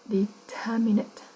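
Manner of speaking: "Determinate" said slowly, stressed on TER; slow "Determinate" down and lean on TER; stress on second syllable. Shown as a demonstration. Teacher showing main stress, slow "Determinate" stressed on its second syllable. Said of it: "Âm hai luôn".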